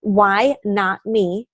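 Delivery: slow, deliberate Why not me; slow mantra. Shown as a demonstration. Coach reading her monthly mantra aloud, slowly and deliberately. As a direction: savor each word of the mantra. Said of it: "This is my mantra for the month".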